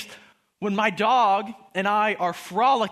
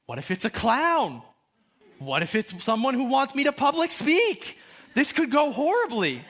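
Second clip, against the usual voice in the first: mock panic, building higher; hammed-up rising dread; escalating anxiety; 4 semitones higher than usual. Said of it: "I remember that anxiety".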